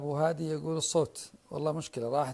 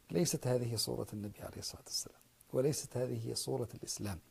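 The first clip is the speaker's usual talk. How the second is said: sudden hushed whisper; whispered aside to the audience; 3 semitones lower, 4 dB quieter, faster than usual. Real, not acted. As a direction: drop to a breathy whisper for emphasis. Sudden hushed denial in lecture.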